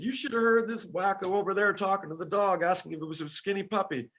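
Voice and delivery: high, loud retelling of a teasing friend; excited bandmate mimicked. Bandmate telling the bus about the dog talk, loud and excited. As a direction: mimic a friend crowing loudly about a wacko.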